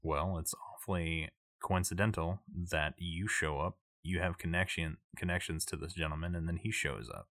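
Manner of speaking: lightly voiced crime boss, on the quiet side; understated suspicion from a crime boss; suspicious crime boss. Crime boss doubts the visitors' story, quietly suspicious.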